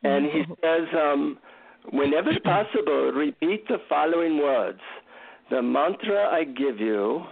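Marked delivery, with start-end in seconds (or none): 1.9-7.2 lightly voiced Indian guru; measured delivery with a hint of an Indian accent. Guru handing a visitor his secret mantra, light Indian accent. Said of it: "deep Indian accent".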